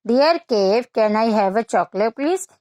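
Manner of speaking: teacher voicing the monkey's polite, loving request to the cave. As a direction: coax the cave sweetly like a polite little monkey. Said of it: "फिर उसने प्यार से बोला".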